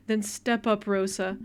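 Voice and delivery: loud, sharp demand; mother shouting at her daughter, loud and cutting; angry shout. Acted.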